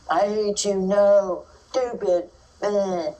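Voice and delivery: put-on toddler fit. Teacher acting a toddler's frustration fit, loud mock yell. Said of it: "And I can still talk".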